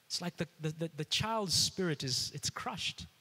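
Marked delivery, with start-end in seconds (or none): 2.3-3.1 a hushed, unvoiced whisper. Real, not acted. Pastor telling parents a child's spirit is crushed, whispered. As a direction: let the word die in a whisper.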